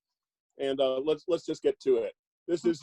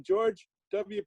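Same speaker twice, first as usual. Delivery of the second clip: upbeat vintage announcer, pitched higher; chipper 1950s ad; 4 semitones higher than usual. Acted. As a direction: sell the name like an old radio spot. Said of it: "I'll just read from the back of this one".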